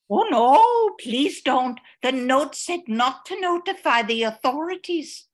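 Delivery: pleading. Acted. Begging them not to call police.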